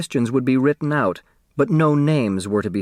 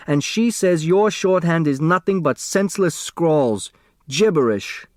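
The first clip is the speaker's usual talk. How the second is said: indignant; 6 semitones higher than usual. A narrator's reading. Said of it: "the indignant Hu".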